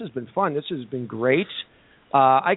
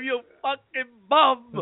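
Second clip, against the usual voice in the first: slow, laughing mock yell at the bum; mock shout; 3 semitones higher, much slower than usual. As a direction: bark it out half laughing, drawn out. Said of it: "And he makes like he kicked him".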